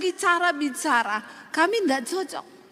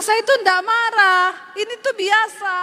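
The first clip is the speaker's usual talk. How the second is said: high, loud protest; retorting loudly; 5 semitones higher, 4 dB louder than usual. Retold or imitated. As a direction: insist you're not angry. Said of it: "Saya bilang". (membantah dengan suara tinggi dan keras)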